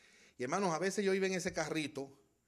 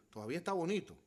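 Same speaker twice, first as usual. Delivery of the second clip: ordinary talk, nothing marked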